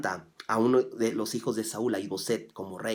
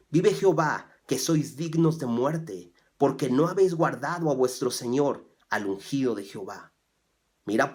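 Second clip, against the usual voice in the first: forceful scripture reading; 2 semitones higher than usual. Acted. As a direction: proclaim the verses to the congregation. Reads scripture aloud with force.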